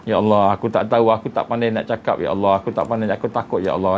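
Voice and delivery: a touch of weeping in a frightened prayer; tearful prayer. Retold or imitated. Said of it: "Dia, dia menangis".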